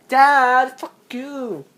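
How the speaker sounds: loud, high yell of Dad; startled yell; shouting dad. Real, not acted. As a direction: call out sharply to Dad. Yelling at dad.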